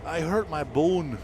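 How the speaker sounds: playful English country accent impression; imitating wife's English accent. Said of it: "she'd be like".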